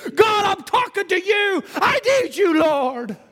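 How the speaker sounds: mild hollered plea to God; hollering prayer. Acted. Amram on his knees hollering to God, pleading. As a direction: call out to God, pleading and desperate. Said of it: "He began to holler out".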